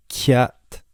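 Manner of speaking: "cat" with the C made near the front; forward C. Shown as a demonstration. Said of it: "forward C sound".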